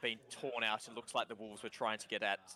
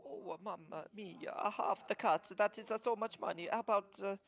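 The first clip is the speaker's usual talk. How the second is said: lightly voiced kobold with an Italian lilt, haggling; mock Italian kobold bartering over the cut; 10 semitones higher than usual. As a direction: shrewd little trader bargaining down.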